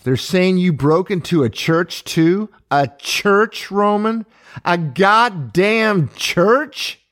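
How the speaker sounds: high, loud, tearful outburst; breaking down. A narrator's reading. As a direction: it spills over into sobs, dragging out each word. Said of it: "Maura broke down sobbing".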